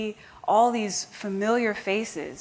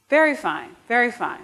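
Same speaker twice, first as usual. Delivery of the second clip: put-on higher, louder approving old lady; Madame approving; 5 semitones higher, 3 dB louder than usual. Madame admiring the narrator in her new dress, higher approving voice. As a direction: pronounce it like a pleased elder. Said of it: "she looks up and she says".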